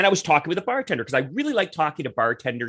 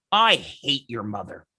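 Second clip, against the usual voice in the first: low, slow, pointed delivery; retold hostility; 4 semitones lower, slower than usual. Woman confronts a politician's son in the bar, hostile. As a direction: lay it down slowly, imitating her contempt.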